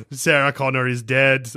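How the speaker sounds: lightly put-on Arnie accent. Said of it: "I'm doing an Arnie accent".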